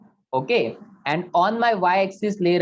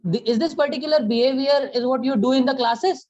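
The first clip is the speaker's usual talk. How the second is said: retold angry scolding; 5 semitones higher, slower than usual. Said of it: "एक certain moment पे गुस्सा आया".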